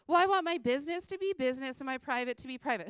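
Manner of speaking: a hint of snark on a mimicked excuse; lightly mock the client's excuse; snarky voice. Mimicking a reluctant client to the audience, lightly snarky. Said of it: "I didn't mean to say it in the snarky voice".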